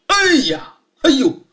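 surprised cry. Acted. Sergeant hears of the murder.

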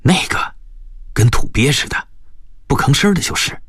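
high-pitched, deliberately scornful reply; feigned disdain. A narrator's reading. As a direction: put on a dismissive air, voice rising. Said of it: "故意不屑地说". (故意装作不屑)

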